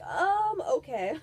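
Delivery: reluctant laughing "okay". Real, not acted. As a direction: give in through a giggle.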